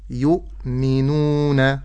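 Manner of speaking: "يؤمنون" slow, still hamza, long uu; careful model word. Shown as a demonstration. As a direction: sound out "يؤمنون" syllable by syllable. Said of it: "ولكن أقول". ("يؤمنون" بتأن ومد الواو)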